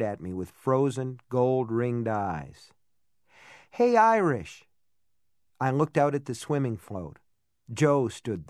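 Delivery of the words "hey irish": higher, louder call across water. A narrator's reading. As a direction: hail him from a distance. Jo calling out from the float.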